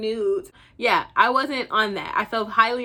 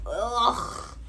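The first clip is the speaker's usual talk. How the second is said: drawn-out dreading "ugh"; reluctant groan. Retold or imitated. Asked to give her date a ride, reluctant groan. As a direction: groan at an unwanted favour.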